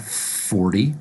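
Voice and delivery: "forty" said "fordy", rising. Shown as a demonstration. Teacher repeating forty for learners, D sound. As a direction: tap a D in "forty" and lift the end. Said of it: "pronounce it with a D sound".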